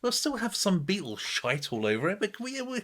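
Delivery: high, sneering mock voice; high mocking producer. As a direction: play a smug producer mocking the song. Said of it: "it's like they listened to it and went".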